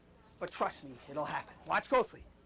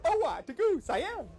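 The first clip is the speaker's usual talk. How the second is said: magic words said quicker, run together; faster; 3 semitones higher, slower than usual. Shown as a demonstration. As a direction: rattle "Oh-wah, to goo, Siam" off faster. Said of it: "Now say faster".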